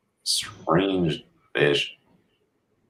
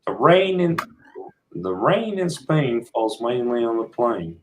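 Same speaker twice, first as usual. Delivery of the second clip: higher, put-on English accent; imitated English accent; 4 semitones higher than usual. American trying the British host's accent, higher put-on English voice. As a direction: copy an English accent, pitched up. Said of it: "can you do Pete's accent?".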